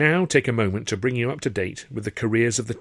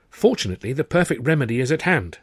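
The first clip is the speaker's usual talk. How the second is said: a touch brighter, picking up hope; mildly perked-up pitch for his brother; perking up; 5 semitones higher, 4 dB louder than usual. Acted. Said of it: "perking up".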